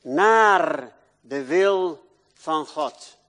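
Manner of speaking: slow, loud drawn-out preaching; slow, loud preacher's emphasis. Acted. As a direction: preach it out, stretching every word. Preacher stretching key phrase.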